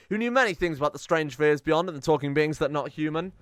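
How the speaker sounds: lightly dramatic reading of event text; story narration. Acted. Gamer reads the event text to viewers, mild storyteller voice. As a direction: read it like a tale.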